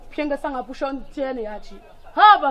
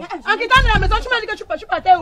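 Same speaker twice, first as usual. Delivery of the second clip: heated questioning; 3 semitones higher, 6 dB louder than usual. Acted. Wife confronting husband's mistress.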